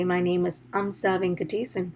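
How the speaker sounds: "Amsa Venkatesan" unhurried, all syllables kept; measured, careful "Amsa Venkatesan"; properly pronounced name. Shown as a demonstration. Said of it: "Instead, I have to say".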